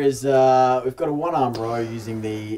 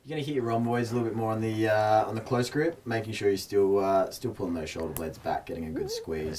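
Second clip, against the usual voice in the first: personal trainer voice. Real, not acted. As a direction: explain the cue like a gym coach. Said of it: "the personal trainer voice has come out".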